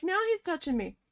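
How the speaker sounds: high, loud retold complaint; exasperated outburst, replayed; upset. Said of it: "I was so upset".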